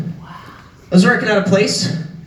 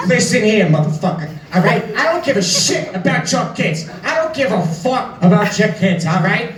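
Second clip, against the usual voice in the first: Joe Pesci impression. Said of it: "my Joe Pesci just snapped".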